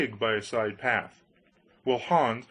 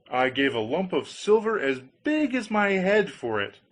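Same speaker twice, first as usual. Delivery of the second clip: eager Hans voice; 7 semitones higher than usual. Acted. Hans answers.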